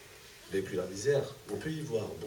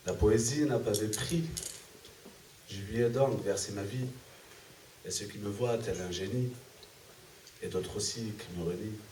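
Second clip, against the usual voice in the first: measured verse, a pause after each line; poem recitation. Acted. Poet reciting own poem to the audience, measured recitation. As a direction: recite it line by line in steady cadence.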